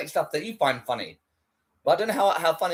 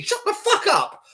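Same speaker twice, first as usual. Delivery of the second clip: high, slow shouted repeat; mock gym bro shout; slower than usual. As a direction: yell it again like a hyped gym bro. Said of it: "It's like".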